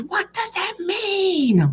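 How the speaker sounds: very high, drawn-out squeal; hammed-up shriek without much volume; mock hysterical wife. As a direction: imitate someone losing it, stretching the last word. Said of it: "she's gonna lose her shit".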